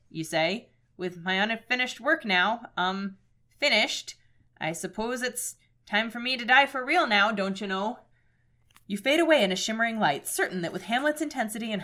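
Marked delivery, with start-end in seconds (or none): 1.0-8.0 lightly Minnesotan, lingering vowels; a hint of Fargo in every phrase; Minnesota accent. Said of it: "supposed to be doing a Minnesota voice".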